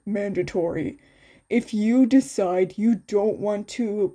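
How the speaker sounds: a hint of a steady teacher; lightly voiced teacher. Teacher reassuring the students, lightly voiced. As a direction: explain calmly to the class. The teacher answers the class.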